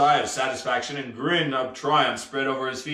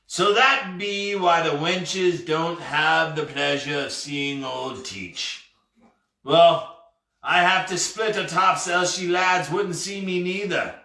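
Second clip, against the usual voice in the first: lightly voiced, slow, drawn-out pirate talk; pirate captain realizing; 3 semitones higher, slower than usual. Pirate grasping why he can't be seen, ruefully slow. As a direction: work it out word by word.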